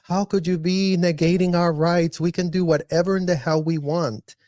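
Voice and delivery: a hint of a squealing entitled parent; sarcastic imitation of a whiny complaint; mocking whiny squeal. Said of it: "They're gonna squeal if you even say".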